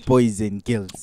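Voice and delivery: slow loud announcer call; grand entrance announcement. Acted. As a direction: stretch it for the crowd. Host intro, slow.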